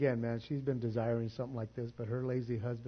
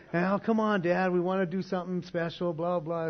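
put-on higher, louder pleading kids' voice; pleading daughter; 4 semitones higher, 3 dB louder than usual. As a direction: mimic the kids begging dad.

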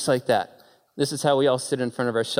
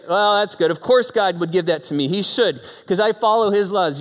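entitled Jonah; 4 semitones higher, 3 dB louder than usual. Acted. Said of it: "He's like".

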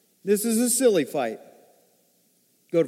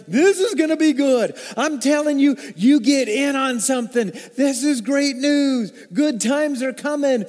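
excited good news; 5 semitones higher, 3 dB louder than usual. Real, not acted. Preacher hyping coming good news.

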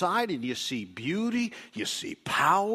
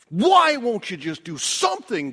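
pleading cry; 5 semitones higher, 8 dB louder than usual. Acted. Prophet's plea voiced to God.

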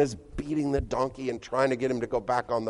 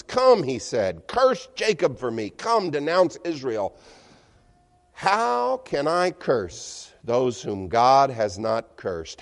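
solemn, declaiming oracle reading; loud, measured scripture recital; 3 dB louder than usual. Acted. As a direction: proclaim it like a prophet. Reads Balaam's oracle.

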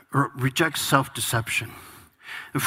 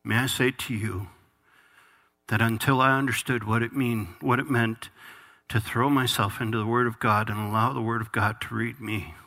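lower, softer heartfelt confession; hushed, sincere testimony; earnest testimony; 5 semitones lower, 3 dB quieter than usual. Real, not acted. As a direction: speak low and sincerely, as a personal admission. Preacher's earnest personal testimony.

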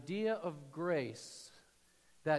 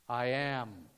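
loud and lower, a voice from above; divine answer; 4 semitones lower, 9 dB louder than usual. Acted. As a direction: declare it like the voice of God. God answering Moses.

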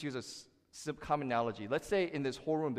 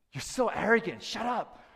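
a lightly voiced scornful heckler, higher and louder; mock scoffer; 9 semitones higher, 6 dB louder than usual. Scoffer heckling the preacher who points the door, mock scorn. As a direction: sneer it like a heckler.

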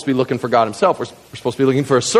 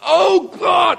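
high impassioned cry to God; 14 semitones higher than usual. Acted. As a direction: cry out to heaven as the prophet. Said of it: "he, he cries out".

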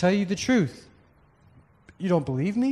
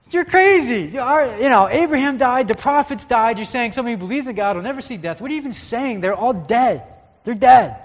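much higher and louder, incredulous outburst; exasperated mockery; 6 semitones higher, 7 dB louder than usual. Pastor retelling the Jews scoffing at Jesus, loud and exasperated. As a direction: throw it back at him like he's lost his mind.

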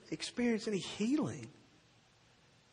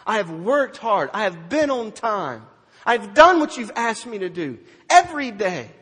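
aggrieved complaint; 2 semitones higher, 9 dB louder than usual. Acted. Older son complaining to his father, loud and aggrieved.

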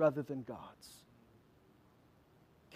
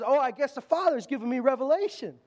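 higher-pitched, puffed-up boast; mock excitement, pitch climbing; jazzed up; 5 semitones higher than usual. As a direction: act out Peter all excited with himself. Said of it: "Peter's all jazzed up".

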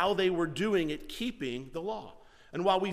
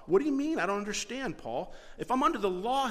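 lightly voiced puzzled believer, pitched up; a mild hint of a bewildered Jewish believer questioning Paul; confused believer; 5 semitones higher than usual. Jewish believer pleading with Paul, mildly puzzled voice. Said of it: "they would say".

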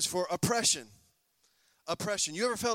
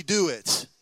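preaching punch; 3 semitones lower, 8 dB louder than usual. Acted.

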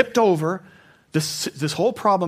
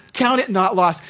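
"Count it not lost" rung out louder and higher; proclaiming God's words; 5 semitones higher, 6 dB louder than usual. Retold or imitated. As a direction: declare it like a divine command. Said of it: "He said that phrase to me".

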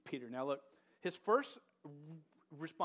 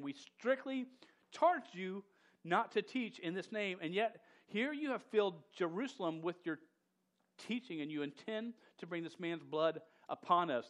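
a scolding high priest, higher and louder; stern high priest; 3 semitones higher, 4 dB louder than usual. Acted.

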